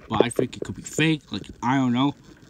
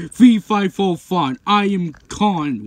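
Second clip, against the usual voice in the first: loud, slow, higher announcing voice; booming play monster; 4 semitones higher, 5 dB louder than usual. Pretend. Kong announcing himself to Godzilla, booming. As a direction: make a big slow monster entrance.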